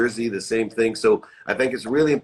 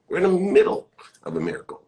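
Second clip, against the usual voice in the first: fast, higher breathy whisper; 8 semitones higher, faster than usual. Shown as a demonstration. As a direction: hush it like a secret. Repeats phrase as a whisper.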